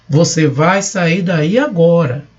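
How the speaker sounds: "Você vai sair daí agora." slow and firm, falling on "agora"; statement as order. Shown as a demonstration. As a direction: state it slowly as a firm command. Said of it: "Uma declaração pode ser uma ordem". (declaração em tom de ordem, lenta e firme)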